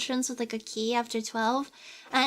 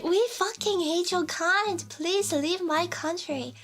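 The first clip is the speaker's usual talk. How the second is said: mock Nordic person; 3 semitones higher, slower than usual. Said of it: "they'll be like".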